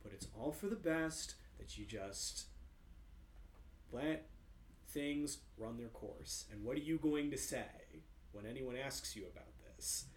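mild, softening sinister coaxing; a hint of a hypnotist's menace; frightening voice. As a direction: lean in and lull him. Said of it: "frightening voice".

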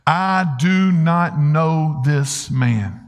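very slow, deliberate oath; retold cursing denial. Peter swearing to bystanders, emphatic retold denial. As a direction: stretch out every word of the sworn denial. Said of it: "began to curse himself and say".

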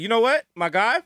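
polite words with a threatening edge; veiled threat. Acted. Security guy to troublemaker at the door, veiled threat. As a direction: politely warn him off, acted. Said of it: "in that kind of threatening way".

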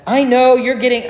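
imitating Alistair Begg. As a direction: mimic a Scottish preacher pressing the point. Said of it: "he said".

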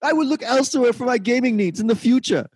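high, prim British voice, politely furious; a refined Brit, outraged but genteel; refined angry British. Retold or imitated. Host mocking a British commenter, in a high refined accent. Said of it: "even when the British people are very angry, it's still very refined".

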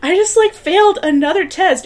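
high, loud, through laughter; laughing mock wail. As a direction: wail it while cracking up.

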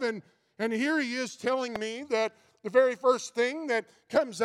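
puffed-up, wounded pride; indignant Nicodemus. Acted. Preacher voices Nicodemus's indignation.

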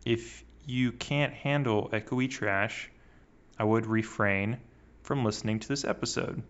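echoey laptop mic; like it was recorded in a big hall. Real, not acted. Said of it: "my voice sounds like echoey trash".

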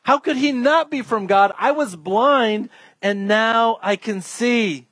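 acted indignant insistence; frustrated, irritated. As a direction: argue back, slowing down to drive the point home. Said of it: "he's getting frustrated and irritated".

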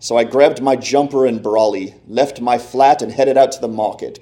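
reading in a light, put-on British English accent; a self-mocking attempt at a British English accent. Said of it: "Can you tell I'm trying to do an English accent?".

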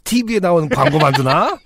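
a hint of a thrilled grandpa; very old man. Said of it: "할아버지는 신나셔서". (신난 할아버지 목소리)

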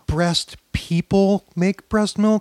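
slow, high mock feminist correction; deliberate, parodied feminist lecturing. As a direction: spell it out slowly as a parody feminist. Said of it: "If you're a feminist, you're like".

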